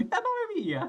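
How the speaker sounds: put-on high Italian accent exclamation; hammy Italian accent. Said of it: "He's Italian voce".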